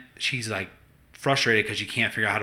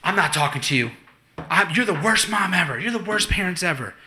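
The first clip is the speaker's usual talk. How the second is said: put-on higher, whiny child's outburst; mock tantrum; 7 semitones higher than usual. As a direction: throw a mock kid's fit. Daughter's tantrum imitated.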